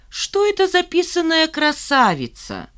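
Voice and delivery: high, sneering tease; mocking taunt. A narrator's reading. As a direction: sneer at the pretty girl. Taunting classmate voiced.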